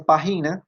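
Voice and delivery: "página" misread with stress on GI, as written without accent; misplaced stress. Shown as a demonstration. Teacher reads out a student's unaccented word, misplaced stress. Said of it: "pues no dice página sino página".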